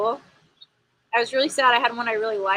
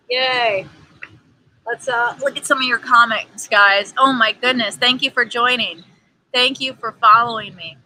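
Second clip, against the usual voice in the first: excited; 7 dB louder than usual. Real, not acted. Cheerful greeting to viewers.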